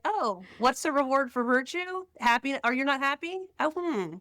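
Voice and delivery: put-on high, sing-song teasing of a sulking child; mock teasing parent. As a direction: needle the kid with mock concern.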